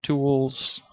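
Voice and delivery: imitating the viewers yelling; mock shout of "tools". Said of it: "you're probably screaming at me".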